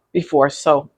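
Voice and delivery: talking with the hiccups. Real, not acted. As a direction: hiccup between the words. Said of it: "oh great, now I'm hiccuping".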